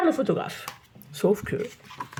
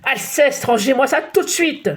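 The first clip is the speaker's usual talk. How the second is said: exasperated shout; 4 semitones higher than usual. Acted. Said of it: "s'égosille le bouillon excédé".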